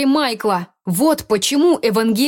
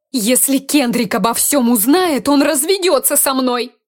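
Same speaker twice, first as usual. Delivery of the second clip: tearful panic; 5 semitones higher than usual. Acted. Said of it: "Дейла всхлипнула".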